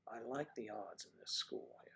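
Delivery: whispered sly aside. Real, not acted. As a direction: drop to a whisper for the joke. Sly aside about the women.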